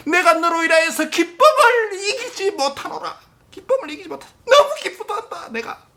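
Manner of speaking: high, laughing joy breaking through. Acted. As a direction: voice God bursting with laughter. Acts out God's overflowing joy. (기쁨을 못 이겨 웃으며)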